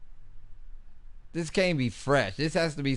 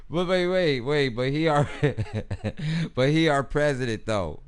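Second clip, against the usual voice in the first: surprised; 2 semitones higher, 5 dB louder than usual. Real, not acted. Shocked reaction to the news.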